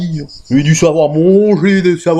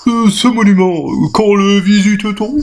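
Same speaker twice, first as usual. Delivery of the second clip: naive; 4 semitones higher than usual. Acted. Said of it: "Naïf".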